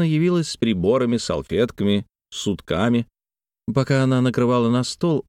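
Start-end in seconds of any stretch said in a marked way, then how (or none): none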